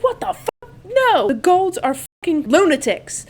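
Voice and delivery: high-pitched mock outrage; acted alarmed objection. Johnny reacting to the Golds being called in, mock alarm. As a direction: imitate someone balking, pitched right up.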